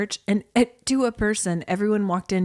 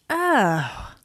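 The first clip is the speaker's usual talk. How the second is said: imitated groan at the cold; retold cold gasp; 2 semitones higher than usual. Retelling getting out of the car, shocked groan. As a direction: gasp as if the cold just hit. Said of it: "I got out of my car and I went".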